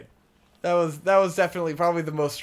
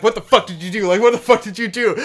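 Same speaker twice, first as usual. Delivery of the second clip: angry ranting; 5 semitones higher, 7 dB louder, faster than usual. Retold or imitated. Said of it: "fucking rambling at me".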